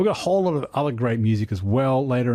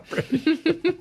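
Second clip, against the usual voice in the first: laughing, higher mock English accent on one word; 13 semitones higher than usual. Host teasing co-host's British joke, laughing mock English accent. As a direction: echo her word in a jokey English accent.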